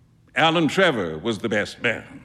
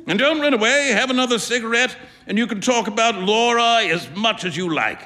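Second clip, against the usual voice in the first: higher, quick coaxing friend; cajoling friend; 8 semitones higher than usual. Acted. Trevor urging Huey to stay and smoke, coaxing. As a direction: coax him to stay, lightly amused.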